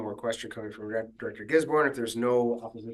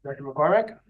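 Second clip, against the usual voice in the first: called louder, questioning; calling out; 4 semitones higher, 5 dB louder than usual. Real, not acted. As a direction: call the name again to get attention. Chair calls again, no answer.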